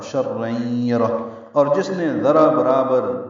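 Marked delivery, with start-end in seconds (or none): 0.0-1.2 شرًا یرہ a little slow, doubled r, stop on یرہ; tajweed demo. Shown as a demonstration. Teacher models stopping on یرہ while reciting. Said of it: "یرہ پڑھا".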